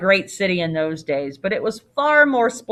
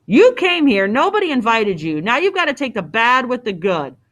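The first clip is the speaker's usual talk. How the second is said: raised, punchy innkeeper's retort; loud, higher opening, firmly insistent; scolding; 3 semitones higher, 3 dB louder than usual. Acted. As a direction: tell off a reluctant guest. Innkeeper berates reluctant guest.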